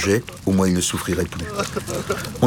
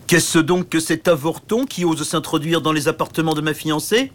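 géant méprisant; 8 semitones higher than usual. Acted. Géant méprise le petit chevalier.

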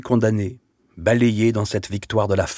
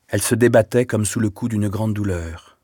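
ordinary delivery

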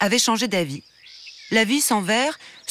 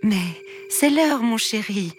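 mumbling queen mother; 4 semitones higher, slower than usual. Acted. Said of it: "marmonna la reine-mère".

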